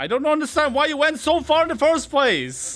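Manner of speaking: angry, very high-pitched voice. Scolding a friend who went too far out on the map: angry.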